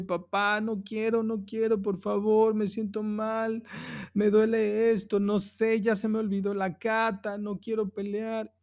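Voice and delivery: imitating scared son. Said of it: "se paró a decirme".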